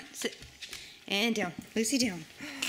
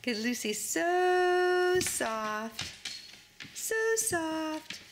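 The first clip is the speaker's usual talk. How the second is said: tender coo; 2 semitones higher, much slower than usual. Real, not acted. Soothing baby about the dog.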